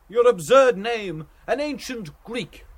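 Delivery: lightly acted merry mockery; gay. A narrator's reading. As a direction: poke fun at a friend cheerfully. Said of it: "he said gaily".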